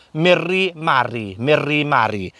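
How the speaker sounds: "Miri mari" with trilled r's; rolled R's. Shown as a demonstration. Welsh teacher giving R practice, rolled r's in "Miri mari". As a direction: roll the r in both words of "Miri mari". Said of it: "practice saying the sound R".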